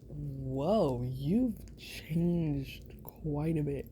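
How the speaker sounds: slow whispered amazement; slow hushed whoa; awed whisper. Pretend. Awed whisper noticing change.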